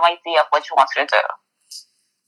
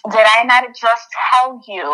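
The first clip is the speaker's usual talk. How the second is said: slow, pointed retort, mildly exasperated; retold exasperation, each word drawn out; upset. Retelling a reply to a forgetful date, upset. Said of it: "Like, I'm upset".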